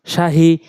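"শাহি" with a plain breathy h, no throat squeeze; small light H. Shown as a demonstration. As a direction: keep the h light and open in "শাহি". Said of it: "এটা ছোট হা বলতে হবে". (হালকা ছোট হা দিয়ে "শাহি")

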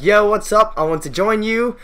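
lightly acted newcomer at a protest. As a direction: pitch it up and introduce yourself to the crowd. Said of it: "He's like".

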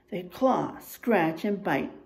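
put-on lively storybook reading for kids; reading to children. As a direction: read the bear facts like a story to the class. Reads picture book to class.

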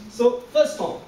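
level held high tone; first tone demo. Shown as a demonstration. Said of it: "loudest and lasts very long".

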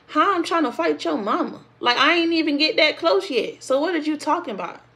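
high-pitched, indignant sass; outraged disbelief. Real, not acted. A woman rebutting her boyfriend's claim, high and indignant. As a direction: call out the lie, incredulous.

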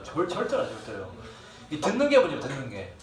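normal talking voice

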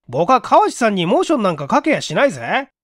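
flustered denial. Acted. Young clerk denies he's after the secretary, flustered. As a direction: protest a little too quickly, caught out. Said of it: "岡本はどぎまぎしながら".

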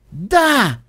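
high, excited cheer; triumphant high exclamation; exclaiming. A narrator's reading. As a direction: burst out with joy. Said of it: "воскликнул Ситибель".

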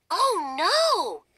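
high squeaky dismay; squeak. Acted. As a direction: squeak it out like a tiny mouse. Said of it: "Hildegard squeaks".

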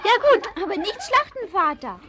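lachend und lauter; lachend gebeten. Acted. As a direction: bitte den Vater lachend. Isa lacht, bittet den Vater. (Isa bittet den Vater lachend um das Schweinchen)

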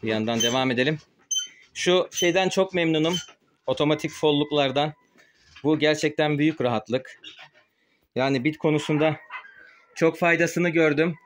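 muffled behind a mask; through a face mask. Real, not acted. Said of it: "Ağzımda maske var".

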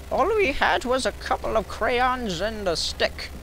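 lightly voiced grumpy old man; fake old voice. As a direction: ham up a cranky old-timer, slowing down.

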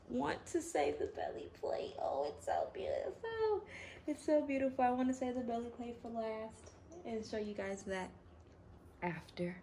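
high, airy gushing; overwhelmed delight. Real, not acted. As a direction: gush in a high, moved voice. Overwhelmed by the belly plate's beauty.

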